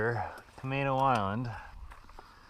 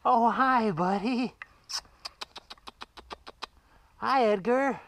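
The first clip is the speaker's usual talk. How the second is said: high sing-song call to a cat; 14 semitones higher, 7 dB louder, slower than usual. Real, not acted. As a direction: call up sweetly, pitched high. Greeting cat in tree.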